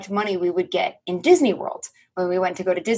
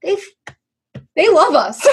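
high, choked-up fan squeal; hammed-up tearful fan; mock weepy; 8 semitones higher, 4 dB louder than usual. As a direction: gush as if about to cry, half laughing. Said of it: "if you aren't crying at the end".

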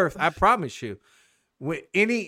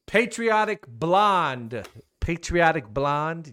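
announcing winner; 3 semitones higher, 5 dB louder, much slower than usual. Real, not acted.

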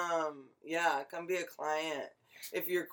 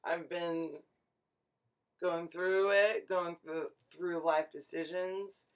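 stoned; 5 dB quieter than usual. Real, not acted. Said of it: "I'm really stoned right now".

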